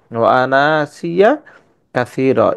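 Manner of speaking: slow, drawn-out Arabic recitation; Quran recitation. Shown as a demonstration. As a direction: stretch the vowels slowly as in tajwid. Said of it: "আনাটাকে আমরা টানিয়া পড়তে পারবো".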